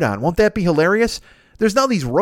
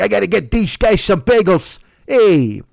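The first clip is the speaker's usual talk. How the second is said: put-on Chicago-accented voice; 2 semitones higher, 4 dB louder than usual. Redoing the bagel line as Al Capone with a Chicago accent. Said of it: "He was from Chicago. So he was like".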